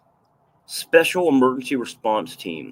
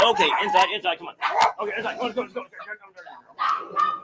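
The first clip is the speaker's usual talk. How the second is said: herd him inside gently but firmly; coaxing; 9 semitones higher, much faster than usual. Retold or imitated.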